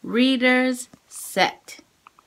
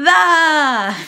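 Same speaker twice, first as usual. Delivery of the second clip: big voice; 6 dB louder than usual. Shown as a demonstration. Teacher shouting sight words for kids to repeat. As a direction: shout the word out for the class. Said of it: "Big voice".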